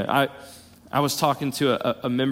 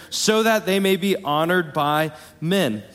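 slow, weighted "honored by men."; emphatic verse ending; 2 semitones higher than usual. Shown as a demonstration. Preacher reading scripture to the church, emphasis on "honored by men.". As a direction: stretch out "honored by men." so each word counts. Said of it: "emphasis here".

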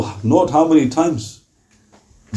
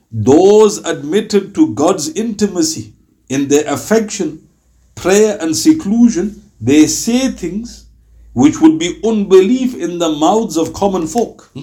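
formal quotation; slower than usual. Acted. Reads a scholar's quotation aloud.

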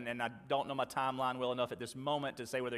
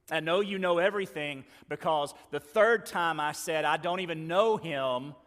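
impassioned confession; 4 semitones higher, 8 dB louder than usual. Acted. Peter confessing his denial.

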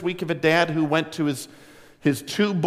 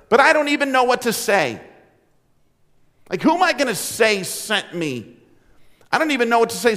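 flustered; 5 semitones higher, faster than usual. Retold or imitated. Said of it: "this feeling of incompetency".

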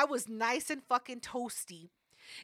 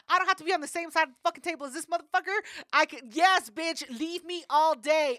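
retold glee, raised pitch and volume; excited; 4 semitones higher, 5 dB louder than usual. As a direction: relive the delighted relief, pitched up. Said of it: "I was so excited".

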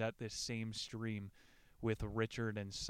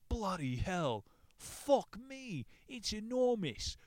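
high, loud shocked outburst; shocked exclamation; 10 semitones higher, 5 dB louder, slower than usual. Acted. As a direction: gasp it out in horror at the wound. Shocked at the swollen leg.

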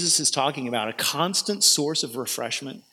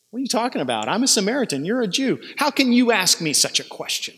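defensive retort; 4 semitones higher than usual. Acted. Woman retorts defensively to Jesus.

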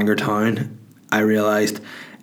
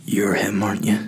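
hushed stranger. Retold or imitated. Young fella to comedian in queue, hushed.

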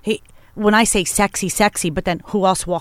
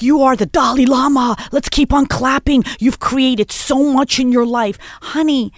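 raised, lively mock tribute; sarcastic mock praise; 3 semitones higher than usual. Addressing a rapper about everybody having to clap, sarcastic. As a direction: lay on the fake admiration.

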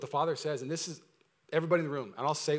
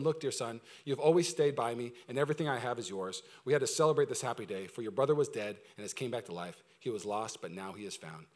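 tender father; 5 semitones lower than usual. Acted. Father soothes angry older son.

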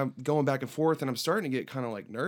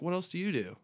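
higher-pitched question thrown back; cheeky retort; 5 semitones higher than usual. Retold or imitated. Musician turning the border guard's question back, cheeky retort.

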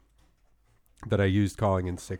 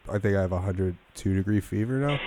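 fake sick voice; 4 dB quieter than usual. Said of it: "my fake sick voice".

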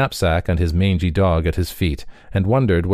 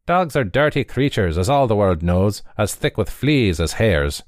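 higher, disdainful hustler voice; sneering runner; 4 semitones higher than usual. Acted. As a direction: scorn the mangy dog.

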